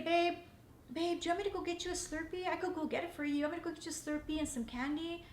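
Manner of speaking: husband softly offering a Slurpee; tender offer. Retold or imitated.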